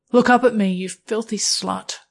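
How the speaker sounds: commanding, rising order; dominant, demanding command; stern command. Acted. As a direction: bark the order down at them. Dominant narrator commanding partner.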